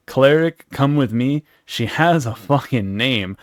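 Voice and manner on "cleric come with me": mocking repeat.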